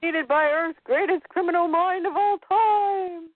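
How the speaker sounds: lightly hammed-up villain boast; mock boast. Podcaster voicing Lex rubbing it in, mock boast.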